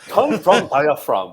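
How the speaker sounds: imitating a stereotyped Japanese accent, slowly; mocking the stereotyped Japanese accent friends use. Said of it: "starts talking like this".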